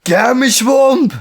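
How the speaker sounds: shouted high and loud as a joke; mock yell. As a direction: bellow it, hammed up. Joins in acting the yell.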